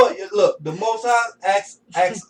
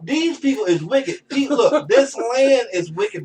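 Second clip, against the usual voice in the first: raised pitch, laughing through the words; real amused exasperation; laughing disbelief; 5 semitones higher, slower than usual. Real, not acted. Laughing at the story's wickedness.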